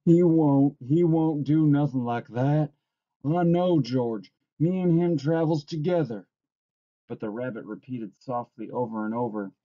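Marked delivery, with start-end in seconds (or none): 0.0-6.3 loud, higher-pitched frantic denial; frantic insistence from a simple man; frantic cry. A narrator's reading. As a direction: protest desperately, voice raised. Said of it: "Lenny cried frantically".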